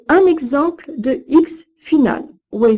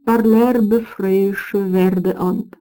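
measured recital of medieval verse; Old French verse reading. Acted. Lecturer reciting Old French verse to students, measured. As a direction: read the old verse with care, line by line.

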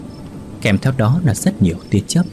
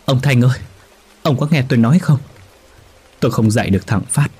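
a widow crying out to her husband's spirit, voice rising in distress; sobbing; 5 semitones higher, faster than usual. A narrator's reading. Widow begging her dead husband to hear her, tearful and rising. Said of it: "Bà Hạnh nức nở".

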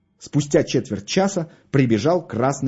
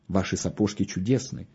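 low, soft seductive compliment; 4 semitones lower, 6 dB quieter than usual. A narrator's reading. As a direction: charm her with a lowered, softened voice. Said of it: "обольстительным голосом продолжал".

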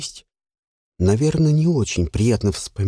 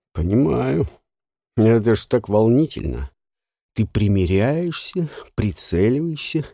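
condescending. Acted. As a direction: talk down to her. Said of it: "сказал снисходительно". (снисходительно)

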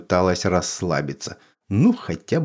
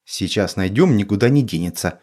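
flustered; faster than usual. Acted. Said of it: "растерянно сказала ведьма".

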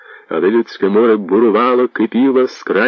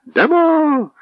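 approving shout; 14 semitones higher, much slower than usual. Acted. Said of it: "схвально одізвалися сотні голосів".

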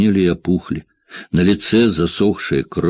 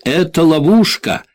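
high-pitched cry of alarm; warning shout; 11 semitones higher, 3 dB louder than usual. A narrator's reading. Jack warns Tvin about the trap, shouting. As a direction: call out the warning high and urgent. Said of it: "крикнул Джек".

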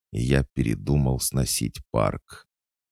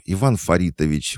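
higher-pitched shocked exclamation; exclaiming; 7 semitones higher, 4 dB louder than usual. Acted. Manager interrupting the drunk's lament, exclaiming in alarm. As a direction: cut him off by name. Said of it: "воскликнула Вика".

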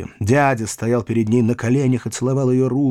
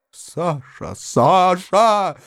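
desperate, swelling appeal; despairing cry; 7 semitones higher, much slower than usual. A narrator's reading. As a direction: call out to her in despair. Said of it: "кричал в отчаянии дядя".

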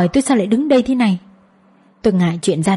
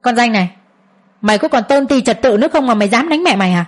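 scolding; 2 semitones higher than usual. Acted. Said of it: "Ông chỉ tay vào mặt tôi mà chửi".

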